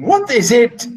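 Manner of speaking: rising, urgent question; excited. Shown as a demonstration. Steward excitedly confronting about the captain's plan. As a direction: burst out with agitation. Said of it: "Excitedly again".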